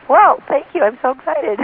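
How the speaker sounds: Whoa jumps high, then falls back; a stunned stranger thanking her, voice leaping up; surprised thanks. Retold or imitated. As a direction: gym guy caught off guard, surprised and pleased. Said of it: "He was just shocked".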